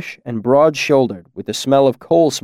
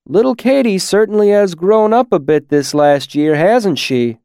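high-pitched musing aloud; 7 semitones higher, 4 dB louder than usual. A narrator's reading. Graham remarks on a neighbour's daughter, musing aloud. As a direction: muse on it for the company. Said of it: "Graham mused".

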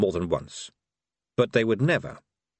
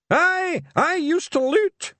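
put-on deaf old man; 5 dB louder, slower than usual. A narrator's reading. Mad Hamish mishearing.

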